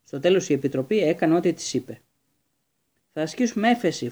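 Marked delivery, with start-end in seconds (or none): 3.1-4.1 shouting. A narrator's reading. Ron shouting to cheer up the sad Hagrid, determined shout. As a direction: call it out so Hagrid takes heart. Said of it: "φώναξε ο Ρον".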